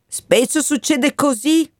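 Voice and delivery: put-on a wind comforting a boy. Il vento Matteo consola Benvenuto. (vento Matteo che consola il ragazzo, voce più acuta)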